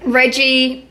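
slow, drawn-out American accent attempt. Shown as a demonstration. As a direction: stretch the R's like an American. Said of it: "we both have to try and do it".

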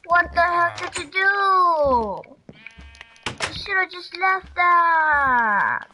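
slow, stretched-out exasperation; drawn-out dismay. Real, not acted. Player scolding game partner for a mistake, exasperated. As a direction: drag the words out in dismay. Dismayed at what Ivan did.

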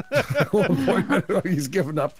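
words broken up by laughter; giggling through the line; laughing. Real, not acted. Telling friends about the Discord rename while laughing.

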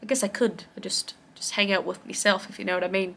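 soft put-on Australian drifting into New Zealand; wobbly mock Australian-Kiwi accent; muddled Australian-New Zealand accent. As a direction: try a vague Antipodean accent, quietly. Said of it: "Don't know what accent this is either".

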